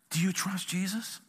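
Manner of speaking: whispered question to the congregation. Real, not acted. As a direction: lean in and whisper it.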